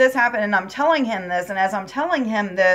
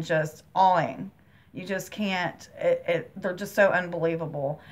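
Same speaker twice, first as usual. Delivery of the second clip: real overwhelmed hush, near crying; subdued and awed, on the verge of crying; close to tears; 2 semitones lower than usual. Real, not acted. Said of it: "I'm about to cry now".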